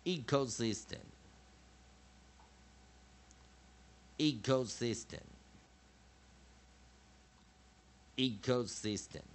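"Ecosystem" modelled as a lone word; measured teaching repeats of "Ecosystem"; listen-and-repeat drill. Shown as a demonstration. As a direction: say "Ecosystem" for learners to repeat, long gaps between. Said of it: "再做一次练习".

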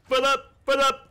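long stretched high yell of thanks; thanking a Prime sub with a drawn-out yell; hype shout-out. Pretend. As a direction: belt the name out like an arena announcer.

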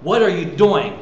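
mildly excited, eager question; a touch of excitement about what comes next. Shown as a demonstration. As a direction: ask it with keen anticipation. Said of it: "but excitement of".

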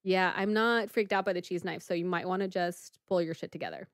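calm, unfazed delivery; level and unbothered, retelling a cool reply; coolly composed; totally calm. Retold or imitated. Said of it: "totally calm and".

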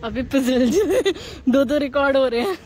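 laughing through the words; amused, giggle breaking into speech; real laughter. Real, not acted. Friends slipping while she films.

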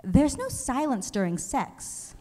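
mock disbelief, drawn out; incredulous. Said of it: "And I go".

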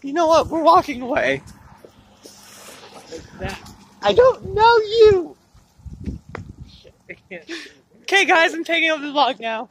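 booming playful takeover; loud. Real, not acted. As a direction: project it loudly. Friend takes over loudly.

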